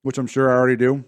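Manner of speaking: talking with a mouthful; words round a bite of food; stuffed cheeks. Real, not acted. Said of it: "'Cause I'm chewing while I'm talking".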